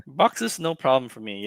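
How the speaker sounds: a friend mockingly quoting a bragger; mock boast. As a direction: play the buddy bragging about his barn. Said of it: "Look at this guy".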